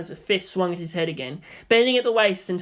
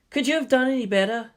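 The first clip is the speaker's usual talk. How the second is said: higher, pointed question; raised voice; 6 semitones higher than usual. Acted. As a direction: throw the question back at him. Shinji challenging Toji.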